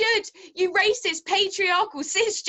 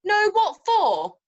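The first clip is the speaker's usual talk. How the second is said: mocking; 3 semitones higher, 5 dB louder, much slower than usual. Mocking the neighbour's answer.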